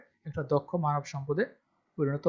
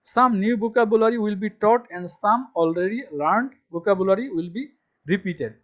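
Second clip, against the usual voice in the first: slow dictation reading; 2 semitones higher, much slower than usual. Shown as a demonstration. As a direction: spell it out slowly for students to copy. Reading syllabus text aloud. (ধীরে ধীরে জোরে পড়ে শোনানো)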